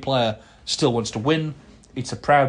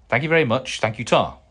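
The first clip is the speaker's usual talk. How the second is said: quick South Walian; 4 dB louder than usual. Retold or imitated. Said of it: "when said in a South Walian accent, we're prone to talking quite quickly".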